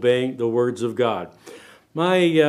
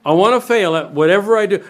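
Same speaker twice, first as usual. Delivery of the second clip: mock would-be failure; 3 semitones higher, 4 dB louder than usual. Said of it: "put your hand up this morning and say".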